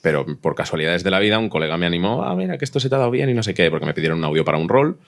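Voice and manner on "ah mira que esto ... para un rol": ordinary delivery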